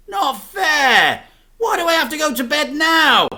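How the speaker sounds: high, loud complaining; whiny protest. A narrator's reading. Boy protests bedtime, loud and whiny.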